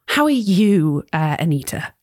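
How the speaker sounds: lightly voiced posh English; polite, mildly posh accent; slightly posh. Book club guest asking after the host, in a slightly posh accent. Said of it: "a kind of slightly posh".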